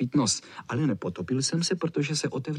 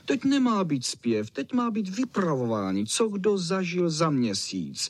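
higher, eager terrier voice, mildly raised; a touch of a shouting terrier; 6 semitones higher than usual. A narrator's reading. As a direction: push your idea like an eager little dog. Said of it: "křičel foxteriér".

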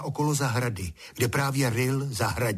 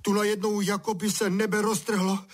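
high, wailing complaint; lamenting; 10 semitones higher than usual. A narrator's reading. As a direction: bewail it like a shocked child. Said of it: "bědoval Honza".

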